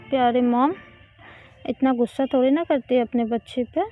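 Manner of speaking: lightly coaxing, wheedling daughter; buttering up. Acted. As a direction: sweet-talk mom out of her anger, understated. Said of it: "मक्खन लगाने लगती है". (माँ को मनाती हुई हल्की मीठी आवाज़)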